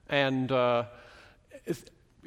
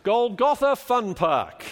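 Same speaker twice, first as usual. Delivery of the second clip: mock disbelief; 6 semitones higher, 5 dB louder, slower than usual. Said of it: "vaguely contradictory about that".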